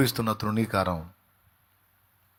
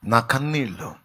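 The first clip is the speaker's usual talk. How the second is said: lament. Acted. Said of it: "చూడండి అక్కడ".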